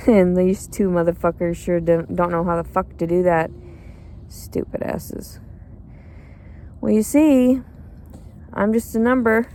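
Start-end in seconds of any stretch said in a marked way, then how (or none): 4.3-5.4 slow whispered insult under breath. Real, not acted. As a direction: hiss it to yourself, slow. Muttered insult aside.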